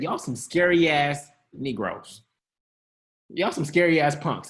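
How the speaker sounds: slow, blunt, unimpressed; blunt scolding. Shown as a demonstration. Jesus scolding disciples in the storm, blunt and slow. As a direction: call them punks to their face. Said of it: "That's exactly what he said".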